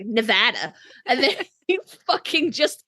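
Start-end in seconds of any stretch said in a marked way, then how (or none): 0.0-0.7 Nevada with a flat a as in cat; correct Nevada. Retold or imitated. Fan correcting how Jensen says Nevada, mildly mocking. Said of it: "And she's like".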